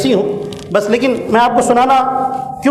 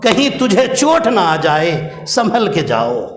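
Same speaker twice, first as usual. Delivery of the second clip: mother's caring call. Retold or imitated. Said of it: "ماں نے آواز دی".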